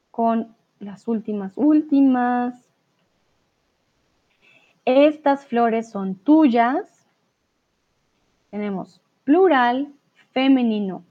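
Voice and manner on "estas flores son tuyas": slow dictation reading. Shown as a demonstration. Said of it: "Aquí estamos practicando".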